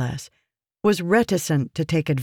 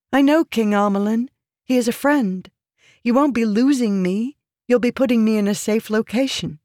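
high, earnest woman's voice making a case; pleading woman, persuasive; 7 semitones higher than usual. Acted. Woman arguing to be sent to an ally king, pleading. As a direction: persuade him steadily in a high voice.

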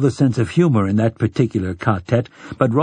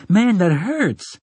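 slow, high-pitched protest; pained complaint; 8 semitones higher, slower than usual. Acted. Boy whose shoulder is being clamped, complaining in pain. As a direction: drag it out, higher, as it hurts.

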